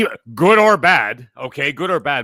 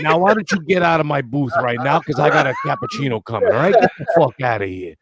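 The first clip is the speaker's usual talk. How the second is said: put-on Italian accent; 2 semitones lower than usual. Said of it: "Anytime you do a fucking Italian accent like that".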